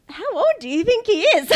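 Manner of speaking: laughing while asking, pitched high; giggling through the question; real laughter breaking in. Real, not acted. Laughing retelling of reaction.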